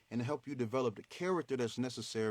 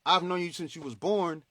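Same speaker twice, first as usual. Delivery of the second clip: family insisting; 4 semitones higher, 6 dB louder than usual. Retold or imitated. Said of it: "And they saying".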